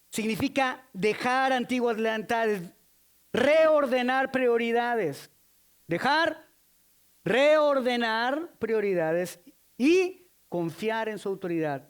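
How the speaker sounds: very slow, loud, word by word; slow emphasis. Shown as a demonstration. Preacher drilling the three steps slowly and loud. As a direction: spell the steps out slowly for the church. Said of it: "slow emphatic teaching".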